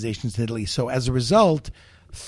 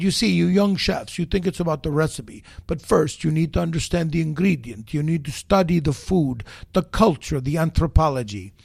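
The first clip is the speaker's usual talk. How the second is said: lightly imitated Neapolitan accent; 4 semitones higher than usual. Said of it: "Neapolitan accent".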